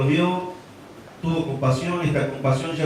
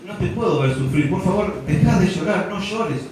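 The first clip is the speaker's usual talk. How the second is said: pleading comfort; 4 semitones higher than usual. Pretend. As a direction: beg her gently to stop crying. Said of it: "nosotros le decimos como diciendo".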